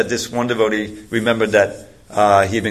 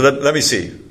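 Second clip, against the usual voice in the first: lightly voiced gruff demand, pitched up; a touch of gruffness, higher-pitched; 4 semitones higher than usual. Security guard asks to inspect the books, mildly gruff. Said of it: "He says gruffly".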